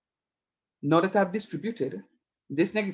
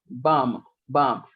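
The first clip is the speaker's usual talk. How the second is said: emphatic bam; 3 semitones lower, 4 dB louder than usual. Real, not acted. Teacher marks terms cancelling.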